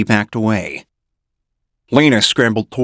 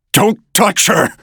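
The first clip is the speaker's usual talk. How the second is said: warning shout; 9 semitones higher than usual. A narrator's reading. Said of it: "I warned".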